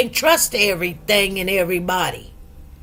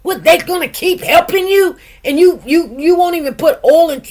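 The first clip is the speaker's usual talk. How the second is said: incredulous scolding; 5 semitones higher than usual. Retold or imitated. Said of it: "I was like".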